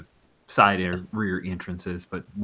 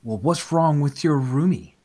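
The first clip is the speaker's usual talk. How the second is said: radio DJ; 7 semitones higher, 7 dB louder than usual. Acted. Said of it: "He goes".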